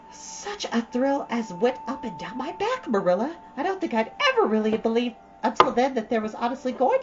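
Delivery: lightly voiced dreamy girl, rushing on; Anne, chattering eagerly. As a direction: gush to Marilla about her playhouse. Anne tells of the picnic.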